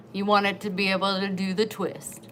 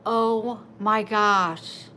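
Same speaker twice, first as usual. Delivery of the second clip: awed gasp; much slower than usual. Retold or imitated. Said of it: "And I was like".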